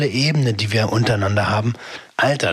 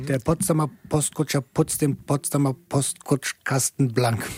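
Zungenbrecher-Übung; 4 dB quieter than usual. Shown as a demonstration. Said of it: "Sprachübung".

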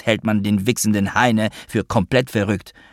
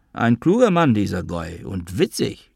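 mocking praise. Father mocks the psychiatrist.

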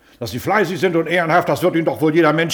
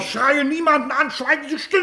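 high yelled order to be silent; furious shout; 9 semitones higher than usual. Acted. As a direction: shout him down. Official yells denial. (hoch geschrien, Befehl zu schweigen)

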